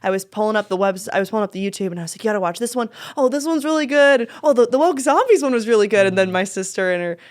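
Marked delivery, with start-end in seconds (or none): 2.2-6.1 excited. Retold or imitated. Recommending sketches to friend.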